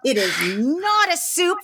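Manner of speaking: slow, stressed NOT in "It is not a soup"; mock insistent friend; very emphatic. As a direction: lean hard on "not", slowly. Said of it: "Very emphatic".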